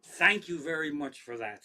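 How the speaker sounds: loud, drawn-out sarcastic thanks; mock thanks. Comic thanking the drunk gym guy who embarrassed him, mock grateful. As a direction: punch the thanks, heavy and slow.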